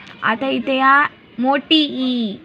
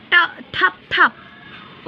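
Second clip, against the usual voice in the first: slow loud word; 5 semitones higher, much slower than usual. Shown as a demonstration. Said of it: "दिलेला शब्द दोन वेळा म्हणा".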